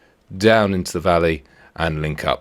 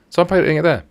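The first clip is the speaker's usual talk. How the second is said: put-on voice; 13 semitones higher, 4 dB louder, faster than usual. Decisive move, put-on voice.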